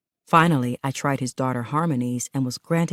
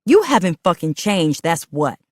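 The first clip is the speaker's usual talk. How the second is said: angry retort; 6 dB louder than usual. Acted. Angry quarrel with partner.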